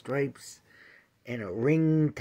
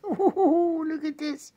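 laughing; 5 dB louder than usual. Real, not acted.

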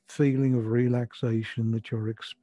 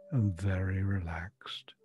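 whispering; 3 semitones lower, 6 dB quieter than usual. Acted. Breathing cue in meditation.

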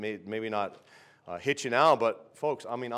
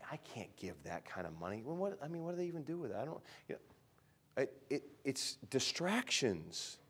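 mock whiny excuse; 8 dB quieter than usual. Mocking stingy churchgoer.

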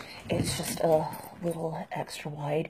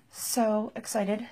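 drawn-out excitement; 3 semitones higher, much slower than usual. Real, not acted.

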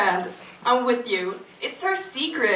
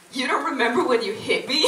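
laughing; faster than usual. Real, not acted. Accusing line read while laughing.

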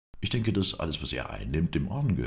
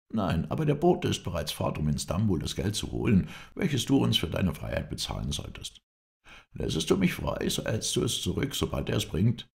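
lightly voiced anxious captive, higher pitched; a higher voice, pleading for a deal; hint of a captive bargaining for freedom; bargaining prisoner; 5 semitones higher than usual. Prisoner's bargaining voice in narrated dialogue.

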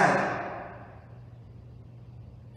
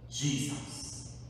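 hushed reveal; 6 dB quieter than usual. Real, not acted. Revealing the answer.

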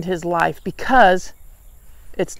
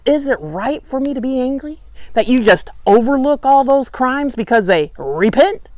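indignant retort; 4 semitones higher than usual. Acted. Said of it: "And he says".

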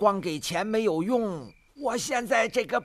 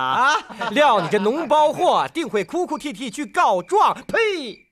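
mocking laugh; 7 dB louder than usual. Bully mocks beaten boy.

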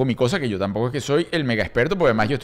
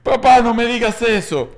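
higher, slow mock plea of a little girl; scared child; 7 semitones higher, 3 dB louder than usual. Father voicing his daughter's fearful plea. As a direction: whimper it like a frightened kid. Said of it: "Hacemos la película aquí".

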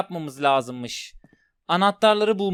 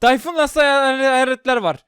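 high, loud frightened yelling; panicked yelling; 7 semitones higher, 7 dB louder than usual. Real, not acted. Streamer fleeing ghosts in the game, yelling in fright. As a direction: shout in real fear while fleeing. Ghosts attack during the chase.

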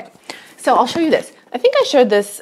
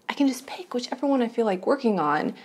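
whispering; 5 dB quieter than usual. Real, not acted. Aside in whisper.

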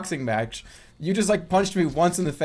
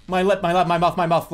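panicked; 2 semitones higher, 5 dB louder than usual. Real, not acted. Hurt in the game, panicking.

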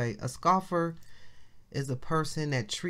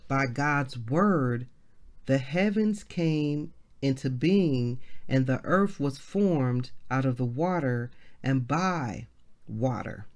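scripture reading; slower than usual. Acted. Reads scripture aloud slowly.

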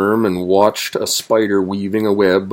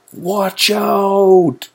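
high, drawn-out bird call; warbled warning; 12 semitones higher, 4 dB louder than usual. A narrator's reading. Wagtail warns the travelers, warbling high. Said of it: "warbled a wagtail".

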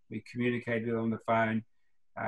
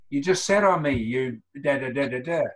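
a mock sore loser, louder up top then easing off; resentful complaint; 3 dB louder than usual. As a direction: imitate a sulky rival, first words raised. Pre complains after race.

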